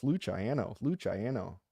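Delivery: Luciano as looch-eye-anno, lilting; singsong practice. Pretend. Host practising for his girls, lilting Luciano as looch-eye-anno. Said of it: "I'll sing it with my girls".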